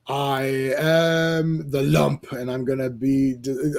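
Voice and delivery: slow menacing villain. Acted. Voicing the lump, slow.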